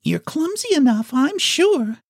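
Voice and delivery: put-on very high, indignant little-girl voice; indignant child. A narrator's reading. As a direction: scold as an affronted girl. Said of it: "said the child indignantly".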